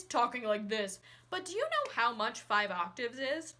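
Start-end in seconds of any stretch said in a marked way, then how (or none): 0.0-1.0 deep yelling voice demo; low voice. Shown as a demonstration.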